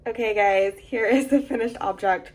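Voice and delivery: sleepy, just-woke-up voice; groggy morning voice. Real, not acted. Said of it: "Excuse me if I sound like I just woke up".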